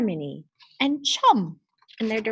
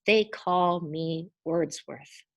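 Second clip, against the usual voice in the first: dumnie i powoli ogłasza swoje imię; proudly, slowly announcing his name; proud proclamation; 3 semitones lower, slower than usual. Acted. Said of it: "he proudly proclaimed".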